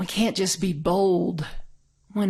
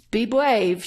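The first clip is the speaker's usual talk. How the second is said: put-on toddler voice; 3 semitones higher, 4 dB louder than usual. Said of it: "She's two".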